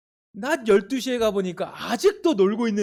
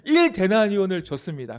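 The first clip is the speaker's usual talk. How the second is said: louder, sure call-back from the pews; confident congregation answer; 4 dB louder than usual. Shown as a demonstration. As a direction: say it out boldly. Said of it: "자신감 있게 하세요".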